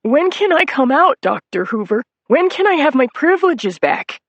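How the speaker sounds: high, loud desperate plea; pleading whine. Acted. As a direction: beg to keep the keys. Nettie pleads.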